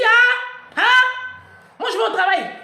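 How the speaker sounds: hammed-up husband snapping back, high and loud; mock loud retort. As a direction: throw his brush-off loudly. Mari répond sèchement. (réplique criée du mari imitée)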